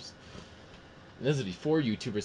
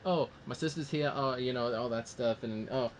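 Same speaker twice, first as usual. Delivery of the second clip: louder, higher, quick retelling in Tony's voice; mock Tony voice; 4 semitones higher, 3 dB louder than usual. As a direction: rattle through the plot playing Tony. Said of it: "and it's like".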